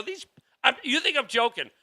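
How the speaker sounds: high, loud sneering taunt; mocking politician. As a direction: mimic a smug politician taunting voters.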